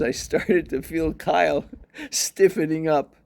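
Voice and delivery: real laughter breaking into the words; laughing. Real, not acted. Owner retelling dog story, laughing through. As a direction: chuckle through it, amused. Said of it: "I'm laughing 'cause".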